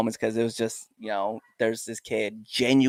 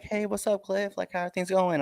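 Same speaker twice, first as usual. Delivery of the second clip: much higher, breezy mock-friendly coworker voice; mock coworker greeting; 10 semitones higher, 4 dB quieter than usual. Coworkers always greeting him at work, high mock-friendly voice. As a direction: imitate chirpy coworkers greeting you. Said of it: "So they're always like".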